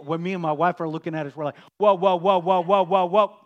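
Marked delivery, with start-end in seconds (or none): 1.8-3.4 loud, high, amazed whoas like puppet aliens; Sesame Street aliens. Retold or imitated. He and his wife react to Aria's news like the Sesame Street aliens. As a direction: hoot like the Sesame Street Martians. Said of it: "We're like those, the animals from the old Sesame Street".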